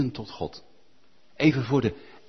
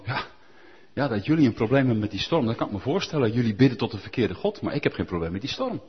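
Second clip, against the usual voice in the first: smug Jonah; 5 semitones lower, faster than usual. Retold or imitated. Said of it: "zoiets uitstraalt van".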